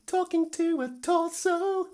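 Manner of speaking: very high, slow, squeaky joke voice; squeaky silly voice. Pretend. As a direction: squeak it out like a cartoon. Jokey repeat of own remark.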